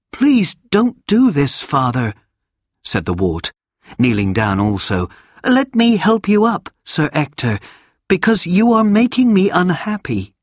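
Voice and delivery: put-on a young boy urging his guardian to rise; boy begging his kneeling guardian to stand, pleading. A narrator's reading. Wart pleads with Sir Ector.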